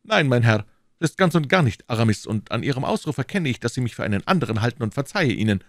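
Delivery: a hint of a haughty stranger setting someone straight; lightly acted offended musketeer; lightly voiced stranger, affronted.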